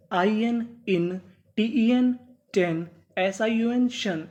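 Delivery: 1 slow spelled-out syllables. Shown as a demonstration. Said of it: "syllable-by-syllable reading demo".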